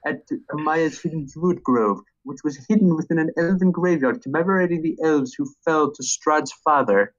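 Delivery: lightly voiced nerdy comic shop owner; a hint of a smug, nasal know-it-all; Comic Book Guy. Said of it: "get Comic Book Guy's voice down".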